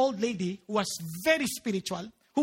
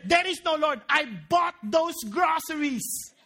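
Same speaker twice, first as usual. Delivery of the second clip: gloating atheist; 2 semitones higher, slower than usual. Retold or imitated. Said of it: "and he said".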